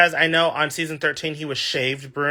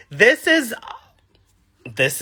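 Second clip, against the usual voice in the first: breathy whispered gush; 6 semitones higher, slower than usual. Real, not acted. Excited gush about the season.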